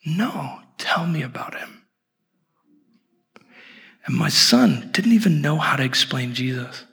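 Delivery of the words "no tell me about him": soft, lightly voiced curious child; innocent little girl. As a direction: imitate a small girl's hushed curiosity. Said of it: "And she goes".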